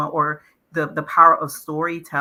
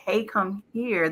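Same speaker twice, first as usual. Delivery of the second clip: one way of saying it; 4 semitones higher, 3 dB quieter, slower than usual. Shown as a demonstration. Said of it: "If I say".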